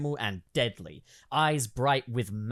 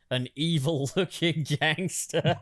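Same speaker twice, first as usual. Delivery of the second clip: laughing through it; 3 semitones higher than usual. Acted. Reading a villain description, laughing.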